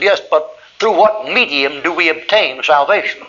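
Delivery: drawn-out mock-learned challenge; mock quibbling. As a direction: imitate a pedantic objector. Argumentative hitchhiker quibbles over doctrine.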